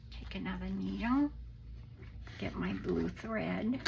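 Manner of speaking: hoarse, sick croaky voice. Real, not acted. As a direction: speak through a croaky throat. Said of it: "sorry about my croaky voice".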